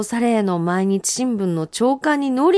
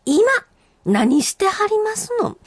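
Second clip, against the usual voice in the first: playful tease; 12 semitones higher than usual. Real, not acted. Playful high question to listeners.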